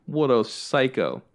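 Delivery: low, slow mock disgust; judgy onlookers. Strangers judging his mom, slow scornful mutter. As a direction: sneer it like a disapproving stranger. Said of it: "they go".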